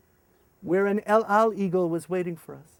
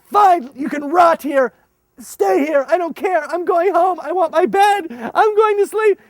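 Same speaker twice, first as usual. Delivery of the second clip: loud high exasperated; fed-up outburst; 11 semitones higher, 11 dB louder than usual. Retold or imitated. Leader giving up on kids, loud high fed-up. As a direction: throw up your hands and quit. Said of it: "I said".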